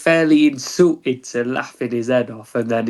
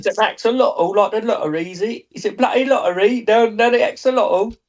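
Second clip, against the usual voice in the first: mock London accent; 6 semitones higher than usual. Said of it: "You'll be a London scam".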